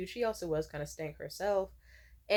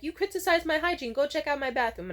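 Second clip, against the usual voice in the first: higher, challenging imitation; mock indignant retort; 6 semitones higher, 3 dB louder than usual. Stylist defending her hygiene to a client, mock indignant. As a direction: play her up as affronted.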